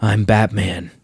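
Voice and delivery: low, growled I'm Batman; hammed-up Batman growl; gravelly Batman voice. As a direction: drop into a deep mock Batman rasp. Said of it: "your Batman voice can be".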